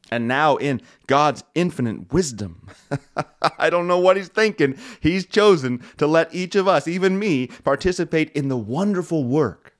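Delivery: amused. Real, not acted.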